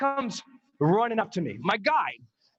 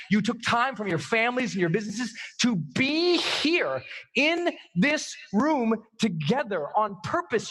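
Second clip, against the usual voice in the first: emphatic, rhythmic exhortation; driving call to action with stretched stresses; motivational preaching; 3 semitones higher than usual. Real, not acted. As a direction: preach it to the room, punching key words.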